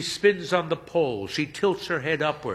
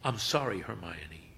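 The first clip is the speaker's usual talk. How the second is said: much softer, fading apology; quietly; 5 semitones lower, 8 dB quieter than usual. A narrator's reading. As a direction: say it almost under your breath. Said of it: "he says quietly".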